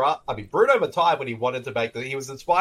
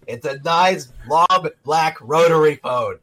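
barge in as an excitable guest; Louise Lasser. Acted. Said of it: "it's Louise Lasser".

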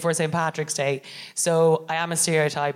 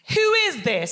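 high, puzzled quoted question; 10 semitones higher than usual. Retold or imitated. Dana in the WhatsApp group, a high puzzled question. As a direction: toss it off, baffled and high. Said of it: "I saw Dana Alexander go".

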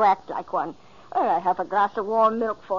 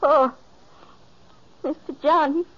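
high, loud gasp of grief on John; distressed cry; 8 semitones higher, 6 dB louder than usual. Acted. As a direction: she realises he is gone. Finds him dead.

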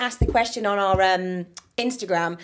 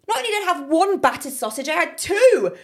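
higher, laughing outrage; laughing disbelief; 8 semitones higher, 4 dB louder than usual. Real, not acted. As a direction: say it through laughter, amazed. Laughing at the battered sausages.

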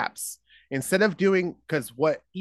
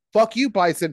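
mock taunt; 6 semitones higher, 6 dB louder than usual. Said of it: "he's like".

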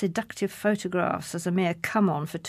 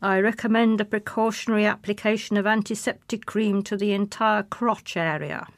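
deadpan monotone, no tune at all; flat monotone; 4 dB louder than usual. Acted. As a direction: say it like a bored instructor. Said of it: "in his flat, monotone voice".

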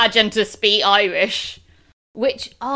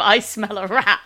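quoting laughing; 3 dB louder than usual. Retold or imitated. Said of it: "the great line of".

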